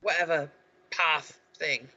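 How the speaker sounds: put-on London geezer. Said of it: "I've just gone Kensington".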